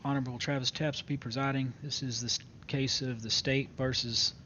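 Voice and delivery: formal courtroom announcement; court clerk. Acted. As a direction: read it like opening a court session. Opens court session formally.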